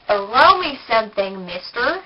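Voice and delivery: light Southern Texan twang; Texan accent. Pretend. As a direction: tell the Mardi Gras history in a mild Texan drawl. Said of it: "that was actually more of a Texan accent".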